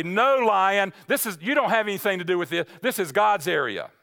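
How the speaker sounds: firm push-back at the lion, lightly voiced; defiant rebuke. Believer rebuking the devil's claim, firm and defiant. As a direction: tell the lion no, with modest force. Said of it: "you need to say".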